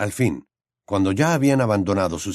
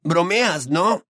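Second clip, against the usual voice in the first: put-on higher teasing boy's voice; higher young wizard voice; Ron's voice; 8 semitones higher, much slower than usual. A narrator's reading. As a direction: voice the gangly friend, amused.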